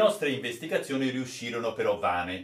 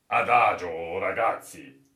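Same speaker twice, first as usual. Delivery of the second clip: calmly; 3 semitones lower, 5 dB louder than usual. Acted. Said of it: "con la maggior calma".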